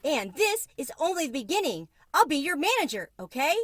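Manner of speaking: a tiny mouse beside himself with joy; gleeful squeaking. A narrator's reading. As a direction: mouse celebrates that the cricket can stay, shrill with glee. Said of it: "squeaked Tucker Mouse".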